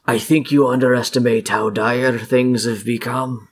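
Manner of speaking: lightly voiced villain refusing to bargain; firm in-character apology, then a claim; unyielding fey villain. Fey villain refuses to negotiate, understated firm role voice.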